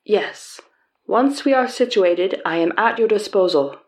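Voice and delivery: put-on Southeast Asian accent. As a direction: introduce himself in a mild Southeast Asian accent. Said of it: "my attempt at a generic Southeast Asian accent".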